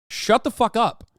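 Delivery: high, loud shut-down; fed-up loud brush-off; loud dismissal. Real, not acted. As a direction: snap it at them. Dismissing fake Texans.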